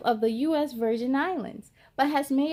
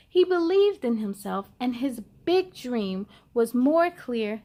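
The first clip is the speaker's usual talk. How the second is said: put-on lively read-aloud to children; picture book reading. A narrator's reading. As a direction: tell the story brightly to young listeners.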